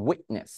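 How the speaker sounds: "উইটনেস" with the T caught before the N; stopped T. Shown as a demonstration. Teacher telling students to say it this way, stopped T. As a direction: slowly hold the T in "উইটনেস". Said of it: "এভাবে বল".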